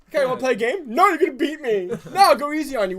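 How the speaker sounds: high, loud mock coaxing; acted sibling back-and-forth. Retelling coaxing little brother into a game, high acted voices. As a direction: play both brothers, high and quick-tempered.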